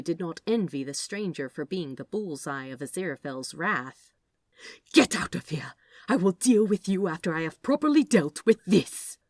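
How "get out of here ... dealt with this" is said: louder commanding voice; angry order. Acted. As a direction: drive him off. Angel orders stranger away.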